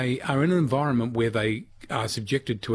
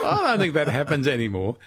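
laughing. Real, not acted. Host echoing the doctor's words, laughing. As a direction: echo the line while laughing.

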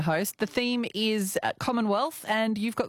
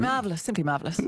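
mock-refined English accent, lower at the end; put-on refined accent; 2 semitones lower, faster than usual. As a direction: gush in a pretend refined accent. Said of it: "you're doing that accent".

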